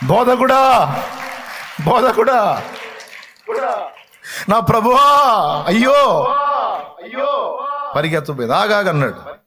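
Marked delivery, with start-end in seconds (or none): 0.1-7.7 anguished crying out. Acted. Mary crying out to Jesus. 8.5-8.9 urgent stop. Acted. Jesus stopping her run.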